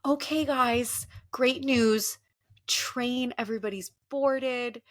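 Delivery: cheery employee. Retold or imitated. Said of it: "she goes".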